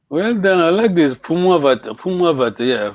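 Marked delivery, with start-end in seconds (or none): 1.2-2.6 "Fumu avata" run together with falling end; vowel contraction. Shown as a demonstration. Teacher praising the student's linking, contracted vowels. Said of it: "Vowel contrast".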